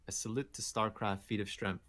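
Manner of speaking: deflated repeat. Real, not acted. Host repeats the underwhelming reward to his co-host, deflated. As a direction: repeat it quietly, hype all gone.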